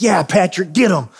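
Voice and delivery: mild, quick cheer of approval. Retold or imitated. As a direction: egg him on, lightly acted. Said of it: "seventy-five percent of the time I'm like".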